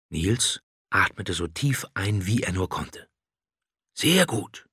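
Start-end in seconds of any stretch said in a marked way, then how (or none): 3.9-4.7 praising. A narrator's reading. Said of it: "lobte der Drache".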